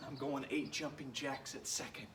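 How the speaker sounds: winded, breathy; puffing after the reps; out of breath. Real, not acted. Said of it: "I'm a little out of breath".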